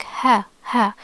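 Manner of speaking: "ha" with H constricted in mid-throat; Arabic ḥa sound. Shown as a demonstration. Teacher introducing the Arabic H sound, constricted ḥa. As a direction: squeeze the middle of the throat on "ha", no grunt. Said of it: "the H sound in Arabic".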